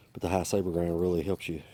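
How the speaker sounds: slightly winded while talking; out of breath. Real, not acted. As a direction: talk a little short of breath. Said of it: "Sorry guys, I'm a little winded".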